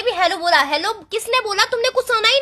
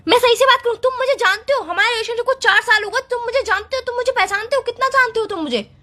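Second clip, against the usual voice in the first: indignant, slightly raised voice; worked-up, accusing tirade; angry yelling; 2 semitones higher than usual. Acted. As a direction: fire back in a heated quarrel. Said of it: "इतना चिल्ला क्यों रही हो फालतू में?".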